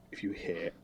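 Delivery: soft unvoiced whisper. Real, not acted. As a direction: whisper it so nobody wakes. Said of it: "so we'll make it nice and low".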